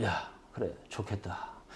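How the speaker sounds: very quiet, sunken, flat, hushed, deflated near-whisper. Example reply to someone who is excited, in a deflated, sunken tone. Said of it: "쫙 가라앉아가지고".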